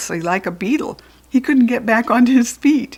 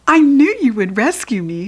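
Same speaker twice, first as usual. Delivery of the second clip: louder, higher happy exclaim; 5 semitones higher, 5 dB louder than usual. A narrator's reading. Brianna thanking the girls after her rescue, exclaiming. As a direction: burst out with relief. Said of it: "she exclaimed".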